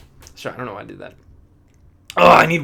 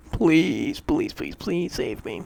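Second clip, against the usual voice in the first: half-whispered pleading, pitch up; mock plea; 3 semitones higher, 3 dB louder, much slower than usual. Worker after seven straight days, hammed-up pleading. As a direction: beg dramatically to be rescued.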